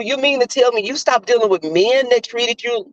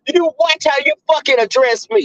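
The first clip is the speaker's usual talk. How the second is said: retold high-pitched scolding; going off on him; 6 semitones higher than usual. Warning an ex about his words, high and indignant. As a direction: re-enact telling him off, voice raised in pitch. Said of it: "I went off on him".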